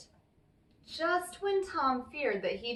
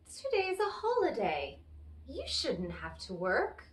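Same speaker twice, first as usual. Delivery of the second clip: sweetly coaxing. Acted. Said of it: "smiled very sweetly".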